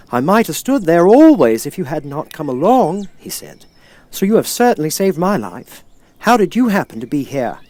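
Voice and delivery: a rusted man grateful to be heard; Tin Man. Acted.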